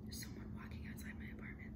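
hushed, fast whisper. Real, not acted. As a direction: whisper so no one outside hears. Aside about someone outside.

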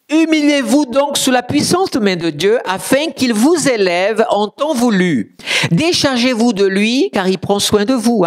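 high, declaimed Bible reading; scripture proclamation. Acted. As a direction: proclaim the exhortation from the pulpit.

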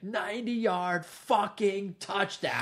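high, drawn-out mock holler; imitated yell. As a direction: stretch each word like a gloating celebration. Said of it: "He's yelling ninety-yard touchdown".

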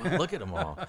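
loud, high, laughing wonder at the fireflies; retold amazed wow. On the porch, struck by the fireflies: loud laughing awe. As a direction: marvel at them through a laugh. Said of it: "I remember we were going".

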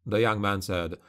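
usual speaking voice

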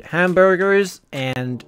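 hammed-up, badly faked American accent. Streamer mocks America on a viewer's request, bad American accent. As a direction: put on a clumsy, emphatic American accent. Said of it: "I can't do an American accent".

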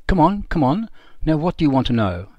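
a prisoner general jokes with his captors, grinning; jovial grin. Retold or imitated. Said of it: "who also grinned and said".

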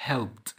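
"helped" as one syllable ending in T, helpt. Shown as a demonstration. Teacher explaining the ending after P, T sound. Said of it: "قبلها بي فهتنطق تي".

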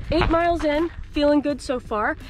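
playing up the long trek; mock exhausted hiker. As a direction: pretend weary explorer. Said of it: "We gotta play it up".

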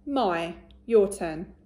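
my said slowly and clearly; slow modelled word. Shown as a demonstration. Teacher models my for the children, slow. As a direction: draw out my for the class to copy. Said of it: "My turn".

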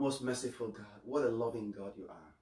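hushed pastor's prayer. Acted. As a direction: pray gently to God. Closing prayer.

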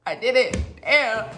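loud hammed-up outburst; mock confession. Storyteller owning up as if sent to prison, mock distress. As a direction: blurt out guilt in mock despair.

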